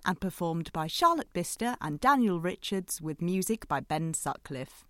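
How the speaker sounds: even announcer read; credits announcement. Acted.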